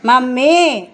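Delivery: a parent showing how to speak up. Shown as a demonstration. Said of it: "గట్టిగా మాట్లాడాలి". (కొంచెం గట్టిగా)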